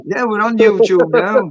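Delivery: slow words through a real laugh. Real, not acted. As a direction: laugh it out as you speak. Laughs at his joke.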